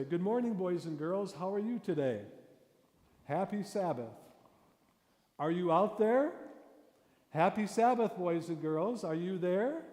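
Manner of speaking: put-on high, loud, sing-song hello to the kids; chirpy children's greeting. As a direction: gush at the children like a cheery host. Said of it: "This is what happens generally when you're telling a story".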